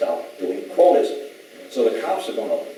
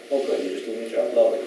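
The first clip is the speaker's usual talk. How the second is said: sarcastic; 2 semitones higher than usual. Retold or imitated. Sarcastic reply to the excuse.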